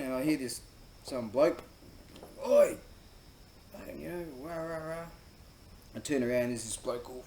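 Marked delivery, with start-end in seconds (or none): 2.5-2.8 sudden loud mock shout; imitated yell. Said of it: "he's fucking yelling at me". 3.7-5.0 higher-pitched imitation of angry ranting; mock yelling. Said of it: "he's fucking yelling at me".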